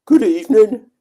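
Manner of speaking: loud, high put-on "good evening"; attempted character greeting. Streamer mimicking a chat viewer's greeting, loud attempted impression. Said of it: "I can't do it, Rob. My voice won't do it".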